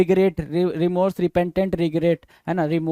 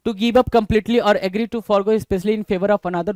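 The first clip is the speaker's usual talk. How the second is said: reading the definition out slowly; slow dictation; much slower than usual. Shown as a demonstration. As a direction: read it slowly so students can note it down. (धीमी आवाज़ में परिभाषा पढ़ना)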